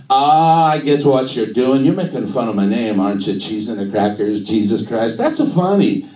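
put-on knowing comic Italian accent; Italian-accented Jesus. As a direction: catch on to the joke in mock Italian. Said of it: "do Jesus in an Italian accent".

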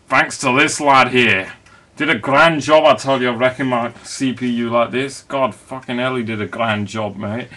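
mock Cockney geezer grumbling; hammed-up East End London voice; East End accent. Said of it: "I'm just putting on this accent".

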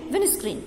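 विंड स्क्रीन said fast with the d dropped, like win screen. Shown as a demonstration. Teacher showing the class how to say windscreen fast without the d. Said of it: "ड को छोड़ देंगे".

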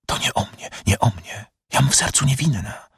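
hushed at first, then rising high; anguished protest. Acted. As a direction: protest your innocence, voice climbing. Prisoner protests her innocence.

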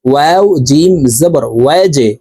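slow spelling, "ওয়াজে" ending on a bounced j; qalqalah bounce. Shown as a demonstration. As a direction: push the jim down and let it echo in "ওয়াজে". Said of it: "ধাক্কা দিয়ে উচ্চারণ করব". ("ওয়াজে"-র জিম ধাক্কা দিয়ে)

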